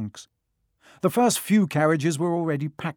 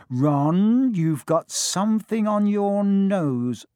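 fussing mother; 6 semitones higher, 5 dB louder, much slower than usual. A narrator's reading.

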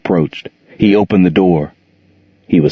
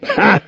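short laugh. A narrator's reading. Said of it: "Jordan's loud laughter".

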